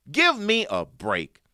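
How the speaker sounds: high, drawn-out sarcastic retort; sarcastic quote. Retold or imitated. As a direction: quote it with slow, mock exasperation. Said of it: "and sarcastically saying, quote".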